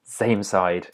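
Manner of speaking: lightly voiced German pirate, "same" as "zame"; a hint of German accent, buzzing Z starting "same". Teacher passing on a memory trick, lightly German-accented pirate. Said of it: "like a German pirate saying".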